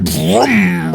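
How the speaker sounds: slow imitated motorcycle vroom; motor revving. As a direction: draw out the vroom like an engine. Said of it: "like when someone starts a motorcycle".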